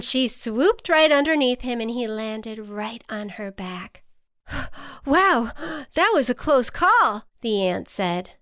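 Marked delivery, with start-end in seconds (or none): 4.5-5.0 short, soft, breathy gasp; acted gasp; relieved gasp. A narrator's reading. Ant just rescued from falling. 5.0-7.2 high, breathless exclamation; storybook ant, wound up; shaken relief. A narrator's reading. Ant just rescued.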